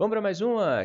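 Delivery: high, loud, energetic, excited call.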